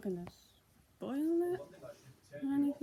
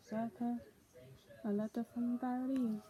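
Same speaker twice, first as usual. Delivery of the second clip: put-on a light French accent; 4 semitones higher than usual. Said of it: "What did I do a French accent?".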